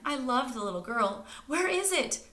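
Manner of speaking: high, loud pleading ask; begging. Acted. Stella begging Tiffany for the book. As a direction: beg for the book. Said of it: "begged Stella".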